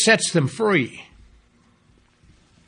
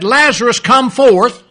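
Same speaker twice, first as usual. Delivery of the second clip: commanding call to the dead, louder and higher; 4 semitones higher, 6 dB louder than usual. Acted. Preacher voicing the Lord calling Lazarus, loud command. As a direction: call Lazarus out of the grave with full force. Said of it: "he cried in a loud voice".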